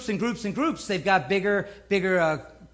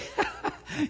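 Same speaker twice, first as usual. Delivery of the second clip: mocking laugh; 9 dB quieter than usual. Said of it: "Kind of like mocking".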